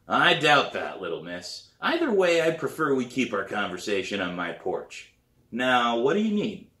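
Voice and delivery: impatient man cutting her short; brusque teacher. Acted. Pete brushes the girl off.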